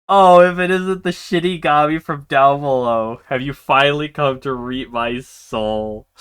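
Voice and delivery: mock her visitor; haughty heiress. Player reading the heiress mocking the shinigami, lightly haughty. Voicing the heroine's reply.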